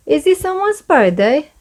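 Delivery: high, eager little-pig question; bright high curiosity; curious Peppa. Acted. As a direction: ask it like an excited child. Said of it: "says Peppa".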